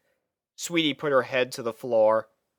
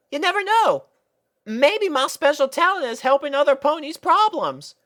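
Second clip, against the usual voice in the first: high, gentle-prodding filly; Apple Bloom voice; 13 semitones higher, 4 dB louder than usual. A narrator's reading. Apple Bloom reassuring Sweetie Belle, high and earnest. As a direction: coax her friend to open up.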